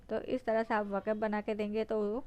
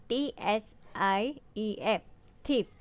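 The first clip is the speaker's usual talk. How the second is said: slow spelling out; slower than usual. Shown as a demonstration. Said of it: "इसको थाइफ नहीं पढ़ रहे हैं".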